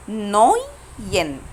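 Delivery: نوين very slow, split "noyyy... yen"; slow breakdown. Shown as a demonstration. Teacher shows how she said the diphthong, slow breakdown. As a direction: pull نوين apart into two long syllables. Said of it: "أنا نطقت أوي إزاي؟".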